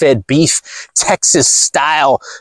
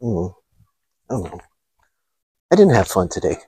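low, much softer mumble; mock sulk; 6 semitones lower, 6 dB quieter than usual. Mocking a girl answering her friend, pouty mumble. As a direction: pout through it.

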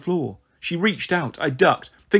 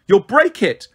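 screamed; 6 semitones higher, 5 dB louder, slower than usual. A narrator's reading. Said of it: "Marigold screamed".

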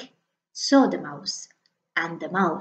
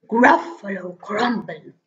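horrified Gruffalo. Acted. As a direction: echo the words in dawning horror. Gruffalo repeats in horror.

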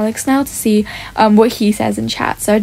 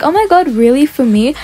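pretend amazement; 3 semitones higher than usual. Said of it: "Kind of just pretending like".

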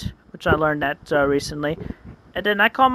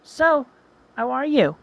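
put-on girl's voice; 5 semitones higher than usual. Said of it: "she says, like".

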